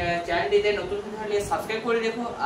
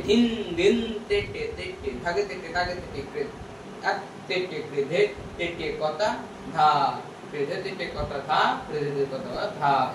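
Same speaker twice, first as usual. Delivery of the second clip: rhythmic spoken tabla syllables; tabla bol recitation; slower than usual. Shown as a demonstration.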